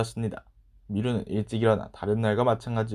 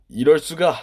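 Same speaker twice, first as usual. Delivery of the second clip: higher, loud exclamation of disbelief; dismayed outcry; 4 semitones higher, 9 dB louder, slower than usual. Acted. Boy seeing the clean carpet muddied again, exclaiming loudly. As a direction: burst out in dismay.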